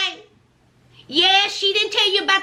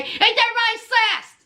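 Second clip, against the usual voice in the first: higher sing-song question to herself; asking herself; 5 semitones higher than usual. Acted. Vlogger asking herself for agreement, higher pitched. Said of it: "asks herself, higher".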